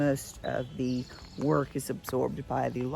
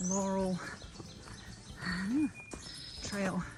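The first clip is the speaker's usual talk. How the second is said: panting between words after a climb; breathless, catching breath; 5 semitones higher, 5 dB quieter than usual. Real, not acted. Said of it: "Sorry, out of breath".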